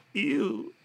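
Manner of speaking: high, disgusted ew. Real, not acted. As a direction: recoil in disgust. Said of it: "that face that you just made".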